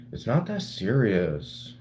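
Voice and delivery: a slow, lightly put-on imitation of his gay friend; mock gay voice. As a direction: quote his friend in a half-hearted, slowed campy voice. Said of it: "so I gotta put on my gay voice".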